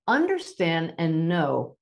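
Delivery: slow, deliberate delivery; speaking slowly. Real, not acted. Medium listening to guides while answering, slow. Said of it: "I'm speaking a little more slowly now".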